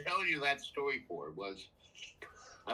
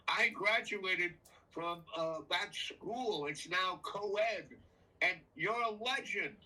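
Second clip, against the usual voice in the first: high, slow imitation of an admiring woman; female voice; 6 semitones higher, slower than usual. Woman by the fire recognizes the storyteller, imitated female voice. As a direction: raise the pitch and stretch out her words. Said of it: "it's a female voice".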